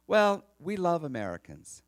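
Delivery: slow, high, loud imitated declaration; little Greek lady. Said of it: "She goes".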